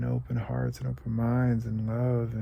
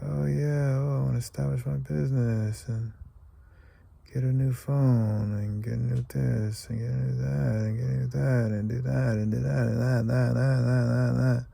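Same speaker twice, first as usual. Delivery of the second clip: mock eager wish list; 4 dB louder than usual. Mocking his own wish list.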